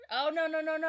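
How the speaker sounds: loud, high burst of protest; loud exclamation. Real, not acted. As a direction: shout it out, realizing you're wrong. Realizing he misremembered the actor.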